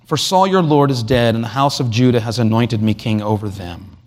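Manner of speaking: mild, measured gentle proclamation; meek, understated royal announcement. Acted. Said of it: "he says very gently".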